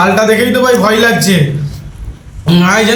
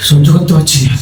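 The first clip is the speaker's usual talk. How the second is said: lower, strained voice from the burn; mouth burning from spicy food; 5 semitones lower, 4 dB quieter than usual. Real, not acted. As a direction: barely bear the chili heat. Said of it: "পুরো মাথা গরম হয়ে গেছে". (ঝালে সহ্য করতে না পেরে বলা)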